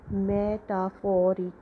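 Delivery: "metaphoric" said slowly, stress on PHOR; stress on phoric. Shown as a demonstration. Teacher showing students the second stress, slowly. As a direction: draw out "metaphoric", leaning on PHOR. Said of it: "we have put the stress on the word phoric".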